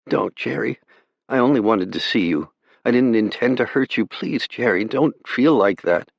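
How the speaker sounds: put-on a young girl begging her brother not to despair; pleading girl. A narrator's reading. Sister pleading with her brother over the radio, young and gentle.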